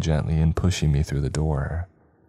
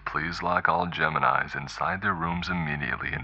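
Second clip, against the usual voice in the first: softer, drawled warning over a speaker; drawling announcement; 6 dB quieter than usual. Acted. Campus voice orders Geminis locked up, drawled. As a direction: read it like a detached loudspeaker notice. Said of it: "the voice drawled".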